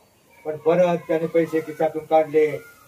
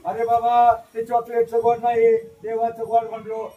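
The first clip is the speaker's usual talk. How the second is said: laughing explanation; 4 semitones higher, 4 dB louder than usual. Acted. Professor laughs it off.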